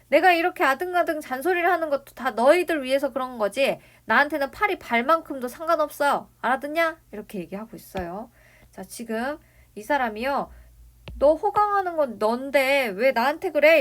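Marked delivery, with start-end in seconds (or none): 0.1-7.0 louder, higher scolding; acted sudden anger. Grandfather insists the nagging is for them, acted anger. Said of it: "갑자기 이렇게 막 화를 냅니다". 11.2-13.8 louder, higher mock scolding; acted browbeating. Grandfather disowns any gain from grandson's success, mock browbeating. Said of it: "이러면서 윽박 지르고 있습니다".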